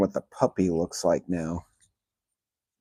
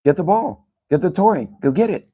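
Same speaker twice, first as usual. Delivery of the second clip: high, eager call to the dog; sing-song fetch command; 8 semitones higher, 4 dB louder than usual. Real, not acted. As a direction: coax the puppy to fetch, pitched way up.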